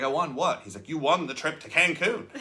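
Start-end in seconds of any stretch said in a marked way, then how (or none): 0.0-0.6 surprised. Retold or imitated. Retold shock at winning trip. 0.9-2.3 laughing. Retold or imitated. Upline announces the win, laughing.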